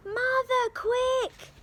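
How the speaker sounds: high, loud panicked call; urgent shout. Acted. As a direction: yell for help in a hurry. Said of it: "he shouted".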